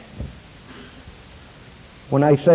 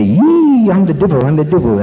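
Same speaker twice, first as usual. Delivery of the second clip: high squealed devil shriek, loud at the start; mock devil; 5 semitones higher, 6 dB louder than usual. Priest coaching the wife to scare her husband, mock devil cry. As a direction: wail it high like a pretend devil. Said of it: "Get out there and, and say".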